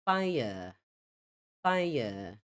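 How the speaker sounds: British "fire" with silent r; non-rhotic British fire; British pronunciation. Shown as a demonstration. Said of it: "você ouviria no inglês britânico".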